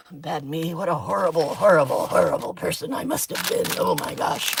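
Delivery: dry mock self-blame, sarcastic. Crafter mocking herself to her viewers, dry sarcasm. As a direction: lay the sarcasm on thick about being so bad. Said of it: "Yes, that was sarcasm".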